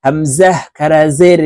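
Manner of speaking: হামজা said with a hard glottal stop; strong glottal catch on হামজা; firm hamza. Shown as a demonstration. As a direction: clip the start of হামজা firmly. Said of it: "শক্তভাবে হামজার উচ্চারণ করতে হবে".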